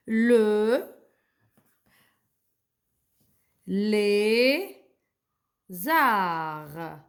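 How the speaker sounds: drawn-out "arts" ending on a long R; slow reading-lesson syllables, "arts" said zaar; silent final D. Shown as a demonstration. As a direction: sound out "le, les arts" in long separate syllables. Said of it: "je vais pas prononcer le D ici".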